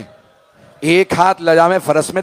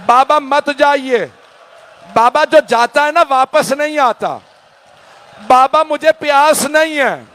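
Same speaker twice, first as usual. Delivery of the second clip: put-on child pleading; 5 semitones higher than usual. Little girl begging father.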